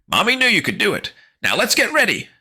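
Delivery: high sing-song mother; sweet mom voice. Acted. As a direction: coo it like a chipper mom. Mom's voice, sweet.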